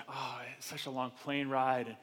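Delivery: soft, low worried whine; whiny doubting voice. Retold or imitated. Churchgoer dreading the long trip, soft whiny doubt. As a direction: sigh out every excuse. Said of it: "you hear the voice like".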